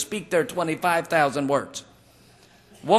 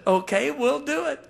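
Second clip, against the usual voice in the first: bemused agreement; 8 semitones higher than usual. Retold or imitated. Resigned agreement to groom's hurry.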